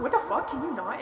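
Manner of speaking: indignant. Retold or imitated. Telling him to stop yelling, indignant. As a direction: push back, mildly outraged. Snapping back at his yelling.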